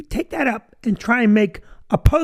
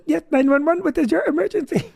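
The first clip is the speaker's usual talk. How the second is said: lightly imitated Indian call center accent; a hint of an Indian call center operator; 5 semitones higher than usual. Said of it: "I can't do an Indian accent".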